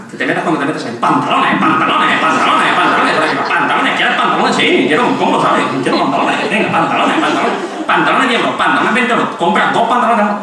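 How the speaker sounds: mock online ads pushing trousers on a shopper; mock ad barrage. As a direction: hammer the word like a pushy web ad. Parodying endless online ads.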